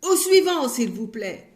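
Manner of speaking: shouted next. Acted. Greengrocer shouting for the next customer.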